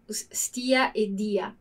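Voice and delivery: unvoiced whisper of "stia e dia"; quiet whispered aside. Shown as a demonstration. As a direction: breathe the words out softly. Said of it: "whispered recap of verb forms".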